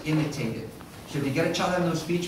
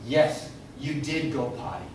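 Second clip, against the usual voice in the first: gentle recasting; slower than usual. Shown as a demonstration. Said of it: "Correct the language in context".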